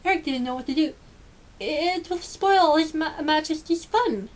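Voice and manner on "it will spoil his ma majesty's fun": slow, halting, higher plea; stammering. Acted. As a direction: stumble over the words, afraid. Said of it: "he stammered".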